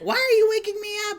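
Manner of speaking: fast whisper; sleepy whisper. Acted. Woken at night by partner, groggy whisper. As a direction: hiss it half asleep. Acted waking-up reenactment.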